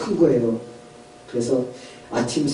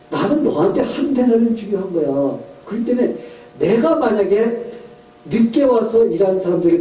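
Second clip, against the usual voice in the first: higher, emphatic self-justifying voice; vineyard owner's rebuttal; 5 semitones higher than usual. Acted. Owner answers the grumbling early workers, firm rebuttal. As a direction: argue back firmly as the employer. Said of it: "그랬더니 주인이".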